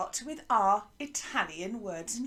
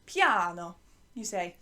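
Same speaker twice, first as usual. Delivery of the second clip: "Piano" in an Italian accent, pi-AH-no; Italian-accented "Piano", punched and falling; 4 semitones lower, 4 dB louder than usual. Shown as a demonstration. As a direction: lean on the long Italian "ah" in "Piano". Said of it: "say it with an Italian accent".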